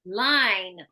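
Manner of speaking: "Line" drawn out into its final N; clear final N. Shown as a demonstration. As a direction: sound the N that ends "Line". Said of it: "with that final N there".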